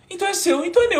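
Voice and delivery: very high and loud, thrilled; elated exclaim. Retold or imitated. Accepting the friend's idea, elated. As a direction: cry it out in triumph. Excited closing of the deal.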